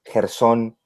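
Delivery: "Gerson" as "Her-SÓN", jota and final stress; stress on last syllable. Shown as a demonstration. Guest listing variants of his name, "Gerson" as "Her-SÓN". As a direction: hit the second syllable of "Gerson". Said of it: "personas que lo pronuncian".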